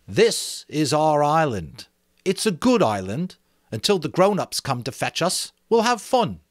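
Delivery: a schoolboy showing off his island; Ralph, excited about the island; boy Ralph, eager. Acted. Ralph voiced.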